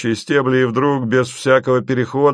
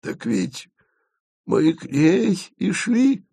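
higher, slow bewildered reply; surprised; 10 semitones higher, slower than usual. A narrator's reading. Asen, surprised, reminds them of the goal. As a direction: say it genuinely puzzled. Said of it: "удивился Асен".

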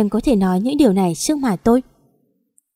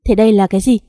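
louder, furious challenge; angry demand; 5 dB louder, faster than usual. Acted. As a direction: slam the question at her in anger. Chồng giận ném sổ tiết kiệm. (chồng giận dữ chất vấn vợ, quát to)

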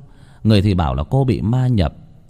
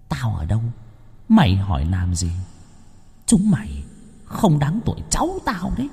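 mocking spirit; 3 semitones higher, 3 dB quieter than usual. Spirit mocks the family.

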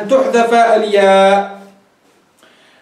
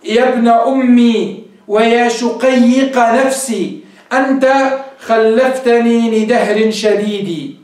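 reciting verse; much slower than usual. Shown as a demonstration. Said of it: "كقول الشاعر".

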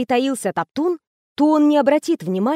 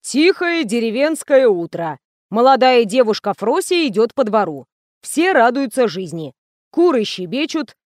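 script reading. A narrator's reading. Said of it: "откашлялся и произнёс".

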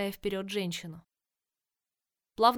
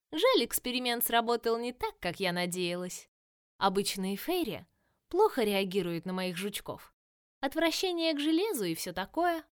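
mock the heroes with cheerful menace; playful villainess. Villain Virus speaks.

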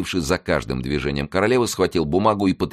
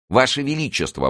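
high, raised cry of alarm; 9 semitones higher than usual. A narrator's reading. Mazarin protests to the queen, high alarmed cry. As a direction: cry out to stop her. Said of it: "воскликнул Мазарини".

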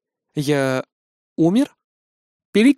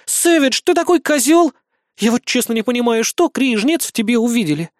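resigned exasperation; 7 semitones higher than usual. Acted. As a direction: give up on him with a sigh. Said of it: "обречённо вздохнув". (высоко, обречённо-раздражённо)

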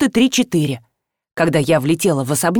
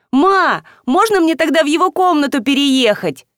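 put-on higher, eager little-girl plea; delighted girl; 6 semitones higher than usual. A narrator's reading. Girl excitedly asks mother for brother's room. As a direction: jump at the chance, thrilled. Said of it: "пришла в восторг".

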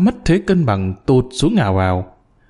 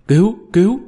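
panicked cry for help; 7 semitones higher than usual. A narrator's reading. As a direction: yell for help as the shaft collapses. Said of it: "Ông Quán Triệt cuống lên". (hoảng hốt kêu cứu, cao và to)

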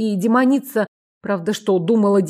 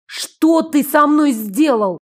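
slow, loud outraged demand; angry; 5 semitones higher, 3 dB louder, slower than usual. Acted. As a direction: demand it furiously. Demoness outraged at her new body.

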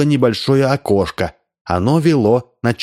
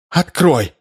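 shouted demand; 6 semitones higher than usual. Acted. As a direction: yell for the door to open. Rimma banging on the door.

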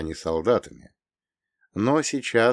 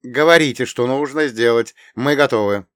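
composed; 4 semitones higher, 8 dB louder than usual. Acted. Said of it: "теперь уже более собрано".

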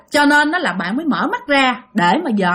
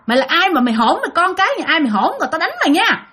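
retold scolding back; 2 semitones higher than usual. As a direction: scold a cheeky child, rising to a threat. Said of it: "cái bạn mới chửi lại".

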